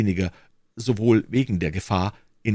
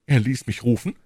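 proud; 5 semitones higher, 3 dB louder than usual. A narrator's reading. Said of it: "erwiderte der Krämer stolz".

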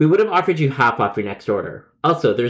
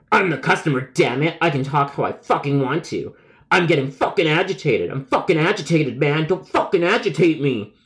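acted agitated rant without raised volume; mock angry customer. Caller told not to swear, acted agitated rant.

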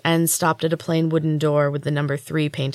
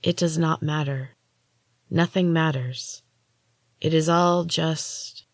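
soothing. Acted. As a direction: gently trail off, slowly. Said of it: "in a soothing voice".

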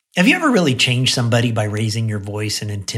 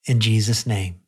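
prayer. Acted. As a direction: pray gently over the listeners. Leads a closing prayer.

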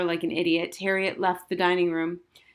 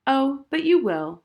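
calm; 7 semitones higher, 5 dB louder than usual. A narrator's reading. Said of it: "said Missus Welsh calmly".

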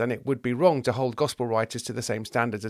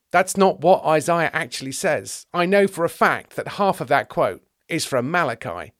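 higher, louder pedantic correction; pedantic teacher; 5 semitones higher, 4 dB louder than usual. Acted. Teacher of the law disputes the quote, pedantic. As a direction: correct them firmly as a know-all scholar.

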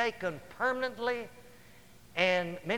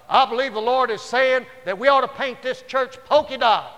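mock prophet voice; 5 semitones higher, 10 dB louder than usual.

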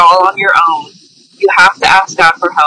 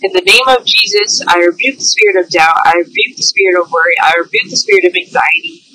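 earnest spoken prayer. Real, not acted. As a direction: lead the prayer with conviction. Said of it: "you can say with me right now".

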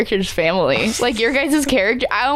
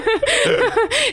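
high, slow, lightly put-on old cat; Uncle Paws voice. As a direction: call from far out at sea, drawn out. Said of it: "Paws is like".

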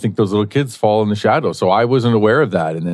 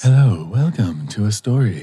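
fireside storytelling. Pretend. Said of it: "smooth storytelling voice".

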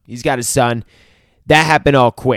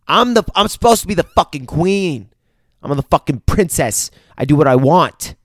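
mock indignant, rising in pitch; defiant princess; 4 semitones higher, 4 dB louder than usual. Princess refusing an arranged match, mock defiant. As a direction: act out a princess putting her foot down. Princess defies father in retold argument.

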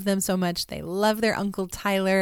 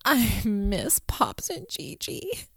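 imitating tearful child; 3 semitones higher, slower than usual. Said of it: "he just sniffed and went".

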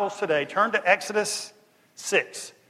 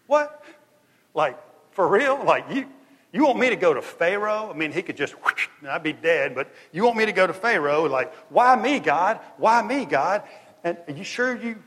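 rising higher and louder in disbelief; protest, why me, getting louder; incredulous Moses; 3 semitones higher, 5 dB louder than usual. Acted. Moses asking God in rising disbelief, louder. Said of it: "Moses was like".

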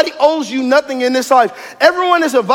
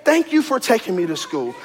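grateful thanks; 3 dB quieter than usual. Retold or imitated. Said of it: "go to them and say".

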